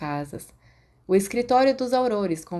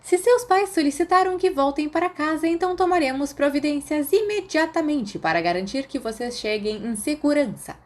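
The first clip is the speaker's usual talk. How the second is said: higher, strained teacher voice; tense, tired professor; 9 semitones higher than usual. Acted. Professor arranging students' trip home, tense and weary. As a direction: speak tightly, worn out. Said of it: "sua voz mais fina do que o normal, tensa e cansada".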